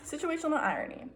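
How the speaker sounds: mock-grand announcement; dramatic announcement. Shown as a demonstration. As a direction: proclaim the term like a title. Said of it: "repeated term, more dramatic".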